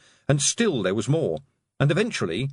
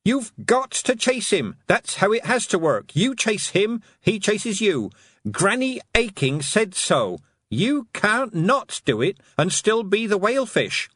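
yelled; 10 semitones higher than usual. Acted. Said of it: "yelled at the towering whale".

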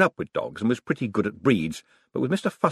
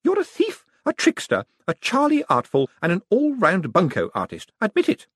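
put-on high, louder triumphant old lady; triumphant accusation; 11 semitones higher, 4 dB louder than usual. A narrator's reading. Old lady accusing the fallen Moist, high and triumphant. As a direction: crow over him as he lies there. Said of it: "went on triumphantly".

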